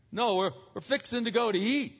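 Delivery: mildly mimicked Southern locals; light Southern twang, imitating; Southern accent. Locals explain to the puzzled visitor, lightly imitated Southern accent. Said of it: "they had all these accent thing".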